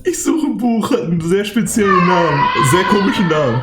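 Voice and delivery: belch through the sentence; burping the words. Retold or imitated. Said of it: "Rülpst du denn hier?".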